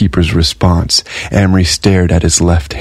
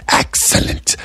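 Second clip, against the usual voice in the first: a soft whispered approval; pleased whispering tally keeper; Gray's whispered declaration; 5 dB quieter than usual. Acted. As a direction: whisper it as a satisfied dealer. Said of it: "Gray declared".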